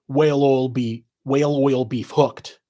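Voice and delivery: words run together, no gaps; said fast. Shown as a demonstration. Revealing the shirt's hidden Irish joke, said fast. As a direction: slur the four words into one phrase. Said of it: "if you said it fast".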